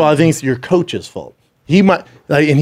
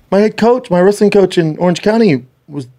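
higher-pitched mock excited recognition; retold eager surprise; 5 semitones higher than usual. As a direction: lift it, as if innocently catching him out. Retold challenge to a boastful friend.

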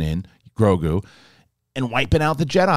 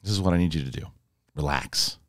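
calm coaxing; 6 semitones lower, 6 dB quieter than usual. Retold or imitated. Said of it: "And then Luke goes".

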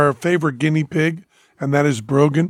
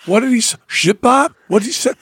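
baffled victim; 4 semitones higher than usual. Acted. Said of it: "And they say".

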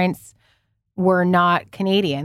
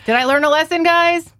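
ironic; 10 semitones higher, 5 dB louder than usual. Real, not acted. Ironic question to audience.

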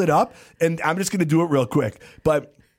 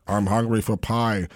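slow, low giant; slow mock Fezzik; 6 semitones lower than usual. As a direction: mumble it like a giant. Fezzik rhyming.

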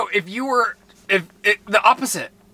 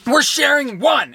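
mocking friend; 10 semitones higher, slower than usual. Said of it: "Lizzie's like".

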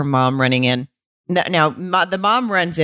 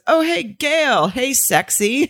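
sleazy flirt; 8 semitones higher than usual. Retold or imitated. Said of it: "And he goes".

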